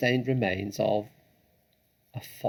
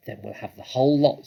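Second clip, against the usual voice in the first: quick, louder and keen; greedy eagerness; 3 semitones higher, 6 dB louder, faster than usual. Acted. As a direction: rush it, greedy for the kill. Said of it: "said Bean".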